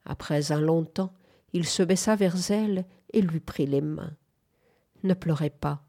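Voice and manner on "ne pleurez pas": apaisant, un peu plus bas, très doux; voix très douce. Acted. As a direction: consoler tout doucement. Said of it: "dit-il d'une voix très douce". (voix très douce qui console)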